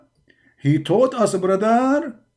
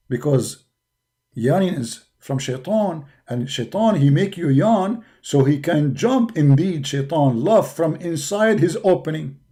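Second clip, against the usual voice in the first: mock solemn low voice; 3 semitones lower than usual.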